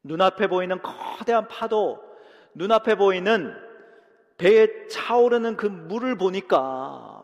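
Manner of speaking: rising intensity. Acted. Preacher building on waves.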